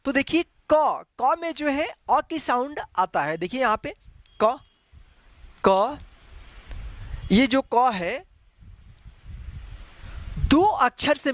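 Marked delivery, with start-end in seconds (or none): 4.4-6.0 क said slowly and clearly as ka, with the vowel a; clear demo of क. Shown as a demonstration. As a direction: spell out क as ka, syllable by syllable. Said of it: "इसको हम पढ़ते हैं क".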